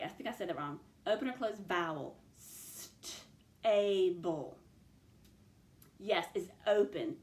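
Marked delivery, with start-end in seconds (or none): 3.6-4.6 "Stable" as separate sss-t and long aaay-bul; stretched out. Shown as a demonstration. Teacher quizzing pupils on the vowel, "Stable" stretched out. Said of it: "Let's listen for the vowel".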